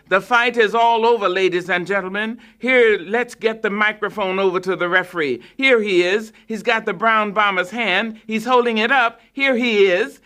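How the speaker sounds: radio announcer celebrating the win; triumphant announcer. A narrator's reading. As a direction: proclaim the end of the fight. Announcer declares the winner.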